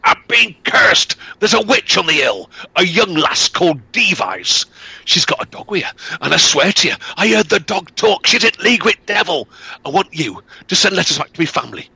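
frightened peddler crying out about a witch; shouted. Acted. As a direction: yell the accusation in terror. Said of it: "Law shouted".

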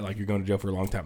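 fast low whisper; whispered warning. Retold or imitated. Twister warning the man, whispered and fast. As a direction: hiss the warning under breath.

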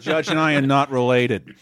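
lightly attempted Abbie Hoffman movie accent; half-laughing go at an actor's put-on American accent; Sacha Baron Cohen accent. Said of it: "best Sacha Baron Cohen accent".

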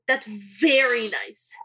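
"That's very nice." dragged slowly, each word flat and drawn out; slow dry sarcasm. Retold or imitated. Daughter brushing off the creepy man, slow dry "That's very nice.".

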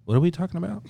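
mock child voice, baffled; son's voice. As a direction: play the clueless little boy. Voicing young son's reply.

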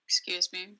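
talking through a bite of food; words round a mouthful; chewing while talking. Real, not acted. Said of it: "Are you eating?".

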